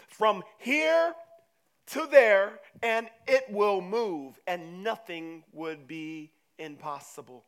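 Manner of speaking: slow, loud, drawn-out proclamation; forceful declaration. Acted. Jesus telling disciples faith moves mountains, forceful proclamation.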